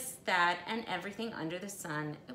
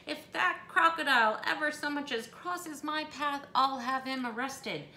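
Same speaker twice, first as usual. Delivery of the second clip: higher, louder indignant threat; called back; 7 semitones higher, 4 dB louder than usual. Acted. Missus Hipple leaving, indignant call back. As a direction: fling it back over your shoulder. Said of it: "she called back over her shoulder".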